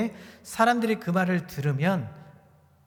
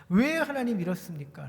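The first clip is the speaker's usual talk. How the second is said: lightly acted protest to God; imitated defiance. Preacher imitating Habakkuk talking back to God, mildly defiant. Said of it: "라고 지금 대들고 있는".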